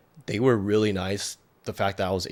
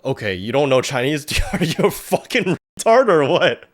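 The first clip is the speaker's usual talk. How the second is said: rude local; 6 semitones higher, 6 dB louder than usual. Retold or imitated. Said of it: "Now it's like".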